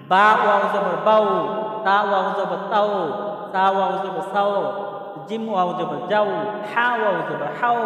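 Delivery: measured drill recitation, each line on the same tune; rote spelling recitation. Shown as a demonstration. Teacher reciting waw combinations for viewers, rote recitation. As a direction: recite the letter combinations evenly, lifting at each end.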